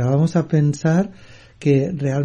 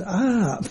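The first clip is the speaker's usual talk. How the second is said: high but softened mock "aah"; imitated echoed cry; 7 semitones higher, 4 dB quieter than usual. Mountains repeat the boy's cry, soft mock scream. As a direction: hold back a pretend scream. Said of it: "repitiendo el grito".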